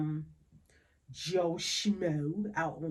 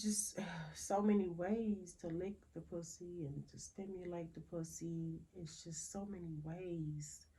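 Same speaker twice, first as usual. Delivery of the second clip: dropping to a whisper; 8 dB quieter than usual. Real, not acted. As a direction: lean in and whisper it like a secret. Confiding about oral sex technique.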